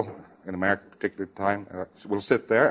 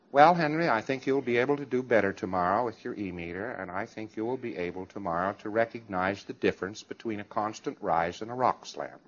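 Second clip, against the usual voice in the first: softer, indulgent coaxing voice; mock gentle coaxing; 4 semitones lower, 8 dB quieter than usual. Lax instructor soothing a student, mock gentle. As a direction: coax Henry gently, a little sarcastic.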